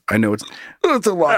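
hiccuping through the words; with hiccups. Real, not acted. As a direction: talk between hiccups. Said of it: "Sorry about the hiccups".

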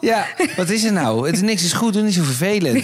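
mock scolding a whiny toddler, laughing; mock annoyed parent. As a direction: play the fed-up parent half-jokingly. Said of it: "mimics annoyed parent to toddler".

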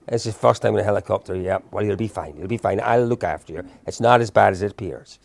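lightly voiced old Irishman, reassuring; gentle imitation of a lilting Irish voice; lilting Irish accent. Old Irishman calming a terrified first-time helicopter passenger, lilting Irish accent. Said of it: "lilting little Irish voice".

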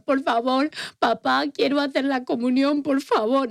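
put-on little girl begging her dad, a touch tearful; pleading crying child. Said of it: "llegué a casa llorando". (niña suplicando a su padre, medio llorosa)

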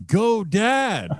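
high-pitched teasing cheer; mock cheer. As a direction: cheer high, without real volume. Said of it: "and you're cheering".

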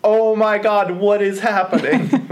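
high, loud, drawn-out panic; panicked driver versus calm official; mock panic.

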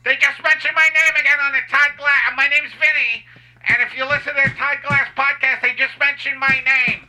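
excited fan. Acted.

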